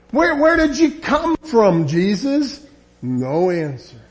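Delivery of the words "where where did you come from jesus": higher, pleading demand; exasperated question. Acted. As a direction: push him for an answer. Pilate interrogating silent Jesus.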